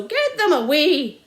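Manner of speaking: slow, loud desperate cry; frantic scream. A narrator's reading. Landowner still screaming about his car, slow and loud. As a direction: plead in panic. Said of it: "screamed Mister Hazel".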